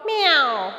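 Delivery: falling mock meow; cat meow imitation. Shown as a demonstration. Teacher answers how a cat will sound, imitated meow. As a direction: mew like a cat. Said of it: "How cat will sound?".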